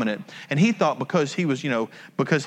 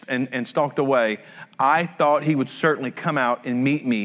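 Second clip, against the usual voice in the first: calm scripture read. Acted. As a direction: read the passage evenly to the congregation. Reading scripture aloud.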